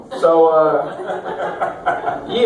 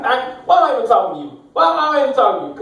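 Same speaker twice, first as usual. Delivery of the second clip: fast, higher-pitched exasperated outburst; 6 semitones higher, faster than usual. Acted. Nephew on the phone to drunk uncle, exasperated. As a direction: rattle it off in mock exasperation.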